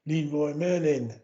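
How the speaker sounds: put-on halting French with an English accent; English speaker's clumsy French, pause before the name; pidgin French. Driver explaining the shop to French customs, pidgin French. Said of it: "In my best pidgin French".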